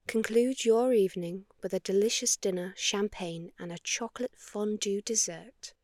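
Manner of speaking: inviting, unhurried commercial voice-over; spa ad read. Acted. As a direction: tempt couples into a romantic getaway.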